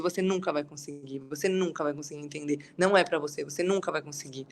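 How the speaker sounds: softly imitated discouraging devil, a little low; devil's discouraging voice. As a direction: quietly voice the devil putting her down. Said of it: "E aí ele falava muito isso".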